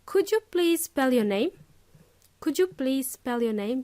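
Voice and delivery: polite question, gently asked; polite request. Shown as a demonstration. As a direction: ask it kindly and courteously. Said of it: "what you can do is simply say".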